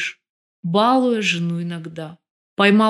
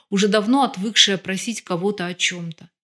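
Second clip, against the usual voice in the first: usual speaking voice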